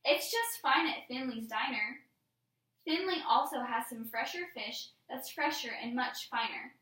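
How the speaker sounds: put-on measured read-aloud to young pupils; poem read-aloud. Teacher reads a silly fish poem to class, measured read-aloud. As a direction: read the verse out clearly for children.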